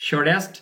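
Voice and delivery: "শর্টেস্ট" with the T softened to a D; American pronunciation. Shown as a demonstration. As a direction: say "শর্টেস্ট" like "shor-dest". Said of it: "American ইংলিশটা এরকম হয় না".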